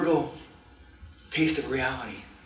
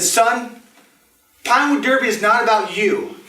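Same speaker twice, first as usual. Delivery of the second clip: loud, high, fervent dad voice; obsessed dad; 8 semitones higher, 7 dB louder than usual. Acted. Dad telling his son he'll race, fervent. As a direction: drive it home to the kid.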